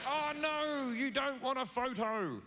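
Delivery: high, faux-hurt reply; mock disappointed. Comedian replies to angry Karen, high mock hurt. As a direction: play it innocently let down. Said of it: "I'll be like".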